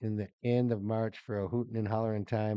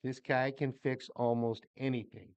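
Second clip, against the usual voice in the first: poem reading. Acted. Reads birthday poem aloud.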